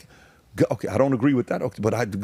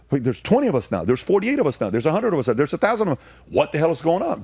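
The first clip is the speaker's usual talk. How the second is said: amazed counting; 7 semitones higher, faster than usual. Retold or imitated. Realizing how many have joined, excited. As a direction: pile up the numbers in disbelief.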